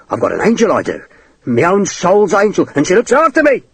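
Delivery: character voice rising into a high cry; shouted words. A narrator's reading. Cornered man boasting of his guardian angel, rising high shout. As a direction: climb in pitch as the boast grows. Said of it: "He shouted the words".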